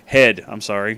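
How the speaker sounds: ordinary delivery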